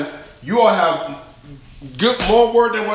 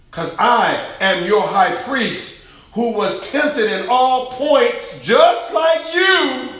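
slow, high, loud preaching swell; drawn-out preaching cry, higher and louder; preaching as Jesus; 6 semitones higher, 4 dB louder, much slower than usual. Acted. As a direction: stretch each word out as the high priest.

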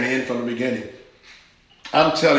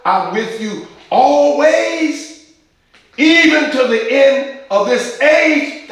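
high, slow, drawn-out declaration, stretching "always"; slow preaching; 10 semitones higher, 4 dB louder, slower than usual. Acted. Preacher promising the congregation God is always with them, slow and high. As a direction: lean into every word of the promise.

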